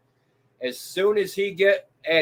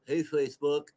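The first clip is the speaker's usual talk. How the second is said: lower, softer mock earnest address; mock serious announcement; 4 semitones lower, 9 dB quieter than usual. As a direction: play a streamer going all serious. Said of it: "on all serious. He goes".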